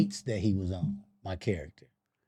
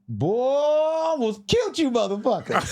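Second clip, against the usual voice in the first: retold barber; 10 semitones higher than usual. Barber after almost stabbing them.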